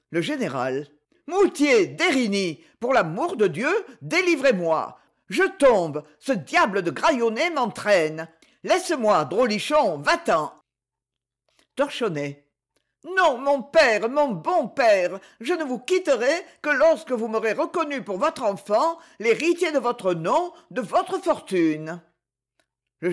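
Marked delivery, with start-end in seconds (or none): 1.3-10.5 alarmed plea. Acted. General pinned, calling for help. 13.2-22.0 put-on high wheedling boy, insistent; clinging boy. Torchonnet clinging, pleading.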